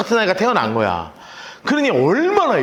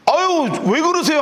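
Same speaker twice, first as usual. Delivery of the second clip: flustered servant; 10 semitones higher than usual. Acted. Servant pulling her away.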